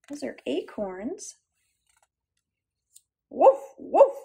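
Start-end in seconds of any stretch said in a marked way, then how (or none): 3.3-4.1 louder woof woof; dog bark. Acted. Storyteller voicing Dog for children, loud bark. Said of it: "said Dog".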